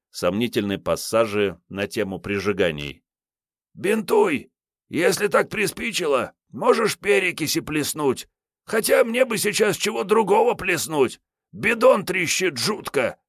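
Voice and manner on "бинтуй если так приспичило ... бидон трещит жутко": put-on high-pitched scornful old tramp; boozy stalker Kiryay. Wounded Kiryay brushing off Sergey's help, scornful. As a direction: wave off the fuss, hungover and rude.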